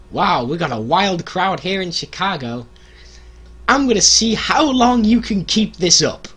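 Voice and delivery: high, loud mocking Vince; Vince on the mic. Vince taunting the Chicago crowd, mock shout. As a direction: taunt the crowd, rising to a yell. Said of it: "Vince gets on the mic and goes".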